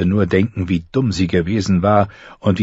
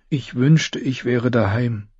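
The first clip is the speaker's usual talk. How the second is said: miserable; 5 semitones higher, slower than usual. Acted. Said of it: "sagte sie und fühlte sich elend".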